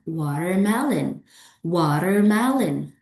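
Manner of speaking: WATERMELON measured out in four beats; four syllables. Shown as a demonstration. Teacher models a four-clap word, four syllables. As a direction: say WATERMELON as four claps, wa-ter-mel-on. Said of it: "this is four syllables".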